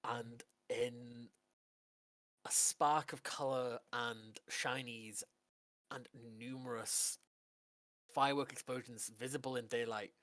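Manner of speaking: slow, measured scene-setting with pauses; game master narration. Acted. Game master revealing a genie to Adonis's player, suspenseful narration. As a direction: unveil it slowly, phrase by phrase.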